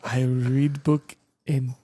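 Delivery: slow put-on African accent; mock African accent. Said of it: "It's my favorite accent".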